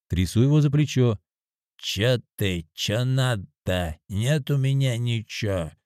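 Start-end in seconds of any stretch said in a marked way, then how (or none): 1.8-5.7 lightly voiced sleepy drunk, slow; drunk mumbling. A drunk woken by a stranger mumbles back, lightly voiced. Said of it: "бормочет пьяный".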